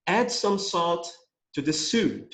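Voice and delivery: slow, careful English read-aloud; slow model reading. Shown as a demonstration. Teacher reading slowly to students. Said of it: "olha só a frase que eu coloquei".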